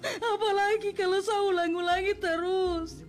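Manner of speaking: steady, wounded confrontation; hurt speech. Acted. Bullied Nola confronting coworkers, steady wounded voice. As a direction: calmly call them out.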